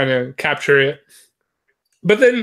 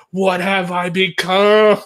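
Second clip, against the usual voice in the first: slow, anguished cry to the sky; mock-tragic lament, drawn out; hammed-up existential crisis; dramatic despair; 2 semitones higher, 4 dB louder, slower than usual. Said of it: "like this dramatic instance".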